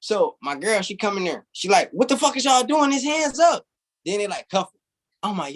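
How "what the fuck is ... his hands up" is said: high indignant yell at the cops; retold yell. Girlfriend shouting at police to stop, high and furious. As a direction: shriek it like the angry girlfriend.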